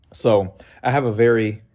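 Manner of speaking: sore mouth, careful speech; pained talking. Real, not acted. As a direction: talk through the pain of a sore jaw. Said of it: "it hurts to talk".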